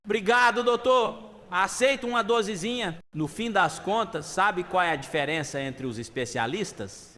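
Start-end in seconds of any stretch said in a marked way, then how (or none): 0.0-3.0 loud, high, hearty acceptance; jovial toast, pitched up and projected; firm, like a toast. Acted. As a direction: call it out as if raising a glass. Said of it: "firme como se fosse um brinde".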